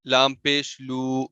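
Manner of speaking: لو drawn out slowly into a long oo; over-stretched madd. Shown as a demonstration. Teacher showing wrong lengthening, slow drawn-out لو. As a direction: stretch the vowel of لو too long. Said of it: "یا اور واو آ گیا".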